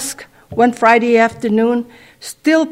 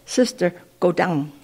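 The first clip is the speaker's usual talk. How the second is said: soft, hushed urging, barely above a breath; mock whisper; 4 semitones lower, 8 dB quieter than usual. Preacher hushing into the sister's ear, softly. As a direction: lean in close and coax quietly. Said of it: "he whispers in my ear".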